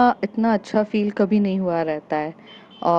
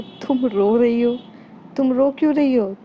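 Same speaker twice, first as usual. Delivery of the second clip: higher, startled, worried question; higher concerned surprise at her tears; 5 semitones higher, 3 dB louder than usual. Acted. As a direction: catch her crying and ask gently but alarmed. Finds friend crying.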